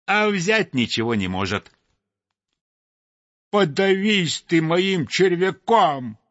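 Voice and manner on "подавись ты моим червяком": high, loud angry sparrow; scolding. A narrator's reading. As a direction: spit the curse out. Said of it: "бранился Воробей Воробеич".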